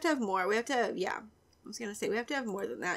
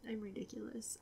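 whisper; 15 dB quieter than usual. Real, not acted. Embarrassed aside.

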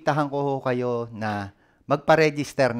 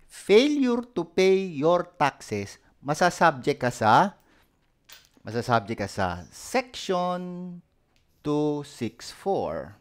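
slow stern warning; 2 semitones higher, slower than usual. Shown as a demonstration. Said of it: "slow stern law recital".

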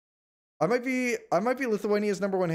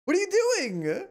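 raging shriek; 11 semitones higher, slower than usual. Real, not acted. Streamer yelling at the AI ally who took his seat, high furious shout. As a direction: scream it at the game like it betrayed you.

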